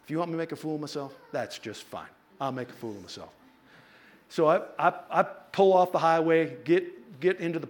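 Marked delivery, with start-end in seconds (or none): 0.0-3.3 resigned giving in. Retold or imitated. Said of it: "So I'm like".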